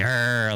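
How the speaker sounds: "er" as a hard, pirate-like R. Shown as a demonstration. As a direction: say "er" ugly, leaning on the R like a pirate. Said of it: "like you're a pirate".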